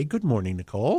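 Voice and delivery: soft, sultry public radio voice; public radio host. Real, not acted. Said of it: "I like your soft, sultry tones".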